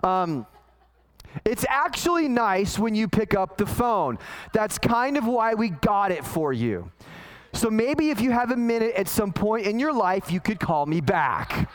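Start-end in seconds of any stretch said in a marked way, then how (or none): 1.5-11.7 mild, dry sarcasm read aloud; sarcastic text. Retold or imitated. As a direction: read the text with a light snarky edge. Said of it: "You can read in the sarcasm and the snarkiness".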